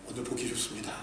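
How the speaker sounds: grudging compliment muttered under the breath; mumbled grudging compliment. Shown as a demonstration. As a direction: toss off 오늘 보기 좋습니다 like you don't mean it. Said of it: "무슨 칭찬을 그런 식으로 하세요".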